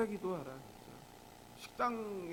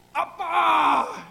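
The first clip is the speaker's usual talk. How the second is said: huge, drawn-out high yell; exaggerated prayer shout, stretched out; shouted call to Dad; 7 semitones higher, 15 dB louder, much slower than usual. Shown as a demonstration. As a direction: bellow it long, as if God were hard of hearing. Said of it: "해야 들으세요?".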